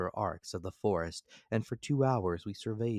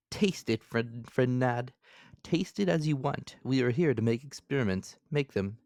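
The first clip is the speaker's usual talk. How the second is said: narrator indulgent; 5 semitones higher than usual. A narrator's reading.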